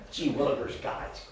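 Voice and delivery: lightly voiced goofy boy; a hint of a dorky kid; preacher lightly mimicking a gawky boy; mocking boy's voice. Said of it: "He talks like this right here".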